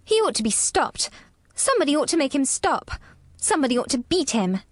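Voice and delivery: put-on high, fast indignant child; crying out. A narrator's reading. Furious girl stamping over the boy's screams, crying out. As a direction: cry out in a high, angry little-girl voice. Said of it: "she cried out".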